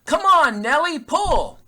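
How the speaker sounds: loud, high holler at the horse; retold farmer bellowing at his horse; farmer's yell. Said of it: "the farmer starts to yell".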